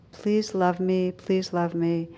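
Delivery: slow, hushed and pleading; woman quietly pleading with the trees she loved; tender plea. Retold or imitated. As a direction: let the plea fade softly.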